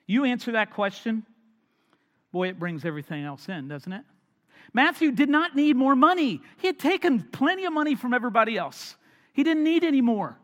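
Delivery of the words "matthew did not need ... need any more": much higher and louder, pressing forward; fervent preaching. Real, not acted. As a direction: preach it with full force. Preacher building about Matthew's wealth.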